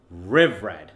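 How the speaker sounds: "riv red" run together as one word; fuse "riv red" with American r's; words combined. Shown as a demonstration. Coach introducing the combined drill word, joined and deliberate. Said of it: "combine the two words".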